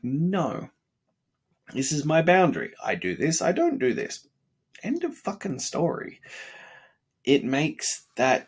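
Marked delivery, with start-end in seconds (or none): 0.0-6.2 higher, emphatic declaration of a boundary; firm self-talk. Retold or imitated. Setting a hard standard against himself, firm and raised. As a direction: lay down the rule like you mean it. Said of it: "you're just like".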